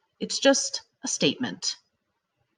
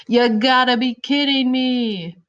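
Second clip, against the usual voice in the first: exclamation; 6 semitones higher, 4 dB louder than usual. Shown as a demonstration. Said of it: "You're yelling and you're showing a lot of feeling".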